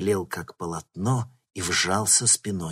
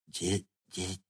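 stammer, then a drawn-out shrieking howl, much higher and louder; 13 dB louder, much slower than usual. A narrator's reading. Artyom realizing Sanka is a girl, stammering and howling. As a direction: stutter in horror, then wail it. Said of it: "завопил он".

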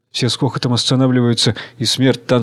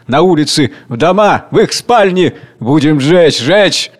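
wild cries; 3 semitones higher, 3 dB louder than usual. Acted. Rioters shouting to burn the houses. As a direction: whip up the burning. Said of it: "отдельные возгласы".

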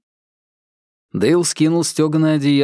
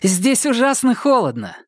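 shouting; 11 semitones higher than usual. A narrator's reading. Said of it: "крикнула Мишель".

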